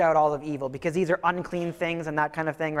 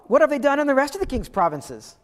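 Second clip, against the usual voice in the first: higher, breezy curiosity about the provinces; flippant king; 6 semitones higher, 4 dB louder than usual. Retold or imitated. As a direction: ask it like small talk. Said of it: "he goes and says this".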